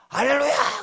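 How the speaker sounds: 높고 크게 터뜨리는 할렐루야; 벅차오른 듯 외치는 흉내; 감격한 외침 흉내. Retold or imitated. 기도 응답에 벅찬 신자 흉내. (감격에 찬 환호 흉내)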